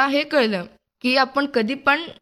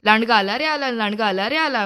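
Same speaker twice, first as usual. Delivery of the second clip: mild storytelling shout. Acted. Young storyteller voices Ramu's false alarm to the farmers, mild shout. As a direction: call out singsong, only half shouting. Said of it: "परत ओरडायला लागला".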